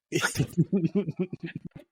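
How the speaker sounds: high burst of laughter; reenacted laugh. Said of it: "just, I literally laughed".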